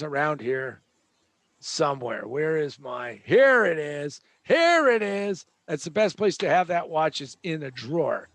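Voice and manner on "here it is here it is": found it. Real, not acted. Finds lost watch in drawer.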